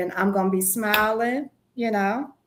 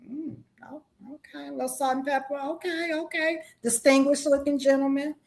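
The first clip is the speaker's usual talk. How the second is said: quiet admiring murmur; 3 semitones higher, 5 dB quieter than usual. Pretend. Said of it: "and I'm like".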